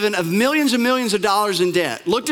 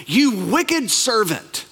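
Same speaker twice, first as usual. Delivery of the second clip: stern master; 2 semitones higher, much slower than usual. Retold or imitated. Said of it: "the master called the servant in".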